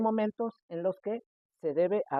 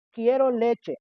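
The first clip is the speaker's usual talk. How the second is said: Quiero leche said higher and louder; good volume; 5 semitones higher, 6 dB louder, much slower than usual. Shown as a demonstration. Child taught to ask clearly, loud and clear. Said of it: "lo dijo con buen volumen".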